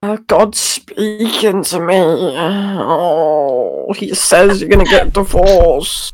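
mock prophet. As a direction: channel God like a fake psychic.

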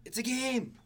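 high, slow mocking repeat; mocking whiny echo. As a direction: mimic him in a whiny voice. Mocking friend's calm remark.

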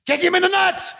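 high, hyped-up play-by-play; frantic mock sports commentary. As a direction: call it like a frantic announcer.

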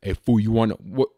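half-hearted tough guy voice; unfinished stab at a tough guy; tough cholo attempt. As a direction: lightly try a tough cholo. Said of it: "like, a deeper voice".

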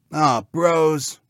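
disappointed cartoon pig whine; complaining pig. A narrator's reading. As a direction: moan to your brothers like a piglet. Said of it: "complained Bob Red".

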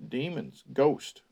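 ghost said as one word, no S at the end; singular ghost. Shown as a demonstration. Reader corrects the text: ghost, singular, no S. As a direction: stress that it is just ghost, not ghosts. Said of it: "No S, ghost".

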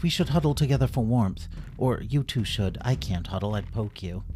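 a hint of a brisk hedgehog; quick practical little creature; lightly voiced Bramble. Bramble planning with friends, lightly voiced and brisk.

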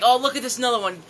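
high, loud imitation of an irate heckler; retold heckle, rising in pitch and volume; mock heckling. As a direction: build into a mock yell, close to laughing. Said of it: "then she was like".

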